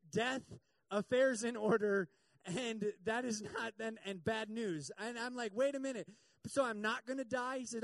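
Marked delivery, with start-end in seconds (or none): 5.5-7.6 higher and louder, worried disbelief; checking anxiously that he will live; alarmed question. Retold or imitated. A patient asking the doctor if he will die, alarmed.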